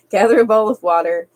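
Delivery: real giggle breaking into the words; laughing through it. Real, not acted. Streamer cracking up mid-reading, laughing. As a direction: let the laugh spill over the line. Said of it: "I can't even talk tonight".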